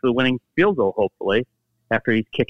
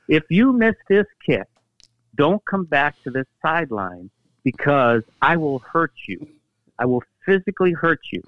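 pitched-up, emphatic imitation of a threatening teammate; mock threat; 4 semitones higher than usual. Teammate warning the kicker on the sideline, mock threat. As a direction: lay down a mock ultimatum, stressing each threat.

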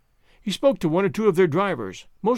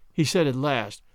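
ordinary delivery, nothing marked

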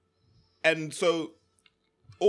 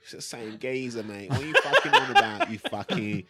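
lightly voiced cockney gym geezer; a hint of an old East End trainer; Terry.

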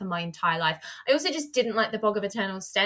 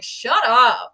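annoyed; 8 dB louder than usual. Retold or imitated. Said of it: "I was very much like".

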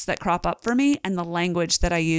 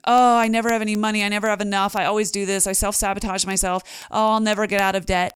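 defeated complaining; faster than usual. Shown as a demonstration. Host demos a defeated money mindset, mildly whiny. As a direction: sound like you've already given up on money. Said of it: "Does that sound different to you?".

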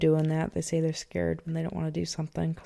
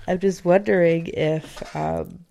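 pinching nose. Real, not acted. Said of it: "I'm plugging my nose".

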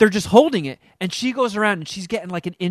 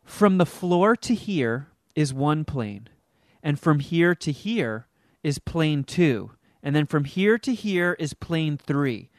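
imitating theater teacher; slower than usual. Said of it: "So she goes".

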